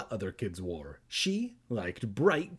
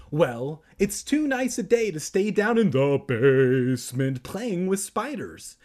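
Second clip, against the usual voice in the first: high, loud aunt voice swelling mid-sentence; booming comic telling-off; Aunt Dee scolding; 5 semitones higher, 6 dB louder than usual. A narrator's reading. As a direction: scold with hammed-up stretched words. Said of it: "Aunt Dee scolded".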